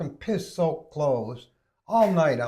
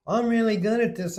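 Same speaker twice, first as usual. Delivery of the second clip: high, lightly camp boasting voice; mock camp nurse; 7 semitones higher, 3 dB louder than usual. Nurse boasting to the patient, mock camp voice. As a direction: imitate a pleased-with-himself nurse. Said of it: "He was queer as a three dollar".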